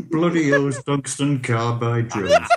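slow Python sketch voice with a laugh; lightly put-on British sketch character, drawn out; Graham Chapman. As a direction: stretch it out like a Python line. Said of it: "Graham Chapman from that".

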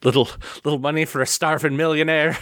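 lightly put-on Scottish beggar; begging Scot. Co-host as actor begging with tartan hat, mock Scottish accent. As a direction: plead for coins with a mock Scottish lilt. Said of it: "He's holding one of those out".

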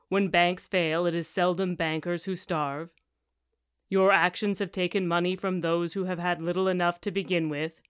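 lightly voiced book reading, golem and con man; a reader lightly acting out a novel's argument; reading aloud. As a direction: read the scene with a touch of character.

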